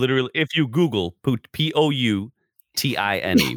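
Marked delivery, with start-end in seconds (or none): 1.5-3.6 P O U T I N E, letter by letter; spelling out letters. Shown as a demonstration. Spelling the dish name for a friend, letter by letter. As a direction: spell it out one letter at a time. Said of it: "one word, poutine".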